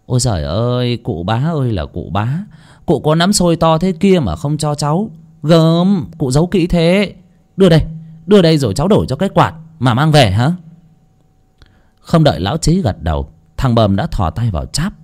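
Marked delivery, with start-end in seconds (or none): 0.1-10.5 fake wailing lament. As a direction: play a mock lament that turns into a greedy grab. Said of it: "giả giọng than trời".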